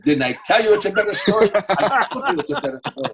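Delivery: high, loud, laughing through the line; laughing Letterman quote. Retold or imitated. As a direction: quote Letterman while cracking up. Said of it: "and Letterman said".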